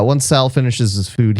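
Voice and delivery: usual speaking voice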